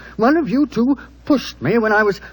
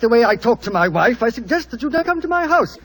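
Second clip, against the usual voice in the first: husband's rebuke; 5 semitones higher than usual. Acted. Husband warning the lover off his house, angry. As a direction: pitch climbing, rising to an angry peak.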